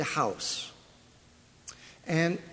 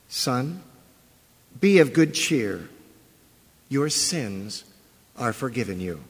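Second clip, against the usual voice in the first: measured formal reading of scripture. Acted. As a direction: read the passage with reverence. Reads scripture aloud.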